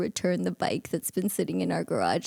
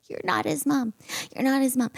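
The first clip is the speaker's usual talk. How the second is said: higher-pitched mock insistence; retold motherly protest; exasperated correction; 5 semitones higher than usual. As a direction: insist it to a stubborn child. Retold correcting her daughter.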